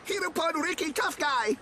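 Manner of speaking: chanted villager praise; proud cheering. Acted. Villagers cheer the returning hero.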